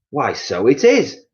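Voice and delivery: a hammed-up wife realising something is wrong; Missus Twit, surprised. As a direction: raise the pitch and linger in surprise. Missus Twit voiced in story.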